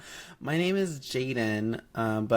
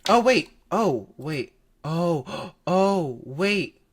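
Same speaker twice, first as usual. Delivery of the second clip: surprised; 4 semitones higher, 4 dB louder, much slower than usual. Real, not acted. Suddenly notices music.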